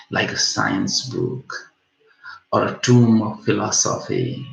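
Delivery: measured verse reading, starting emphatically; poem recitation. Acted. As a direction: pick the poem back up and recite phrase by phrase.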